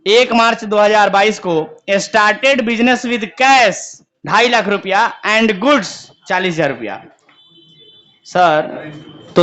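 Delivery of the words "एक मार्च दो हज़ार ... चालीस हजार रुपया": slow, spaced-out dictation; teacher dictating a question to the class, very slow; dictating slowly. Shown as a demonstration. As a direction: read it out word by word for note-taking. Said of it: "लिखा है".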